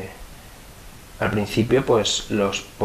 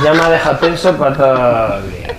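louder, higher, laughing as he speaks; 6 semitones higher, 10 dB louder than usual. Real, not acted. Guest jokes to the interviewer about being left tense, laughing loudly. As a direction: joke through laughter.

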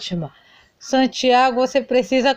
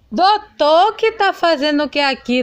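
surprised call; 5 semitones higher than usual. Acted. Startled greeting to the doctor.

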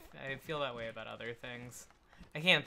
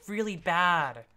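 loud, higher frustrated griping; annoyed complaint; 7 semitones higher, 9 dB louder than usual. Real, not acted. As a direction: gripe loudly about the level. Frustrated at game section.

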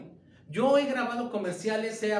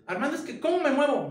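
imitating a lost actor; 6 semitones higher, 5 dB louder, faster than usual. Actor asks director, voiced.

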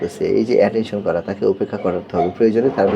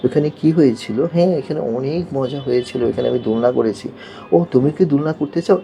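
lightly acted child chatting to themself; child's self-talk; 5 semitones higher than usual. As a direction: ask and answer yourself in a higher pitch. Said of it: "নিজে নিজে কথা বলতেছে". (নিজে নিজে কথা বলা শিশুর হালকা অভিনয়)

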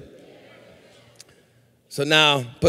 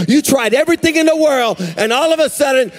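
rapid-fire rising sermon cadence; preaching; 4 semitones higher than usual. Real, not acted. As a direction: drive each phrase home like a preacher. Preaches at full force.

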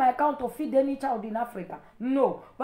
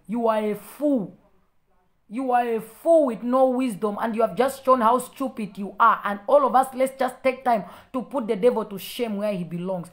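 loud, forceful telling-off; angry rebuke; 4 dB louder than usual. Real, not acted. Calling out the commenter before all viewers, angry. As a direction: lay into them at raised volume.

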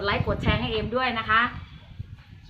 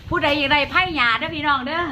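laughing; 4 semitones higher than usual. Real, not acted. Seller giggles while pitching.

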